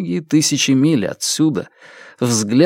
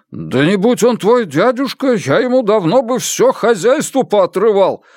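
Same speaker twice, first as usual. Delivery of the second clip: raging; 10 semitones higher, 3 dB louder than usual. Acted. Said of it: "бушевал Мюррей".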